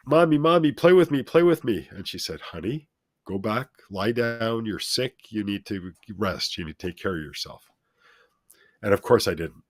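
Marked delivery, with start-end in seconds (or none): 0.1-1.9 put-on high, loud child's plea; little kid begging. Child self begging mom. 2.4-7.7 calm sweet voice. Retold or imitated. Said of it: "very calm, sweet voice".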